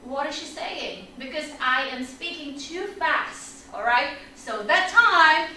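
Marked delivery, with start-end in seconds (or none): 0.0-1.1 hushed puzzled aside, much softer; confused student. Acted. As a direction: wonder quietly, like a lost student. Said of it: "And you're like".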